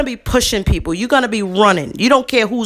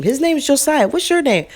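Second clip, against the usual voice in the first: put-on higher, sing-song voice for a small child; talking sweetly to a lost child; sweet coaxing voice; 5 semitones higher than usual. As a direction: coax the little boy gently. Coaxing a lost little boy.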